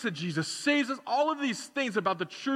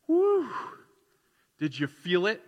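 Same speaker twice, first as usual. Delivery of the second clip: hyped woo; 3 semitones higher, 4 dB louder than usual. Retold or imitated. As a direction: whoop like a thrilled churchgoer. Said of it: "walk out of these doors and go".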